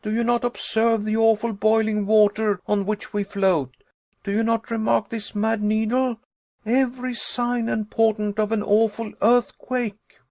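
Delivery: high, loud, relentless accusing questions; fierce angry tirade. Acted. Nephew listing signs of earthquake to uncle, fierce and loud. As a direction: hammer him with every sign of danger. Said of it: "I cried in fierce and angry tones".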